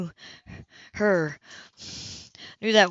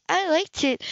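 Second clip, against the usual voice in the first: smiling; 9 semitones higher, slower than usual. A narrator's reading. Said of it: "she smiled".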